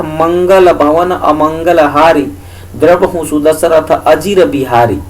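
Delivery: slow, metrical reading of a couplet; verse recitation. Shown as a demonstration. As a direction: recite it in measured rhythm with drawn syllables. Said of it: "इसको हमने ऐसे पढ़ा". (लय में धीमा चौपाई पाठ)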